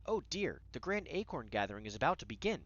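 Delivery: mock worry, trailing into hesitation; frantic gnome. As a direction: play a fretting gnome, lightly hammed-up. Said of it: "getting more and more frantic".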